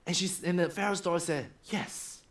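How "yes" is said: slow royal reply. Acted. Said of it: "they have to say it slowly".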